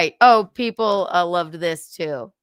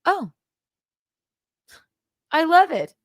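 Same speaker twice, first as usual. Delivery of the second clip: gushing mimicry; 8 semitones higher than usual. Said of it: "I'm like".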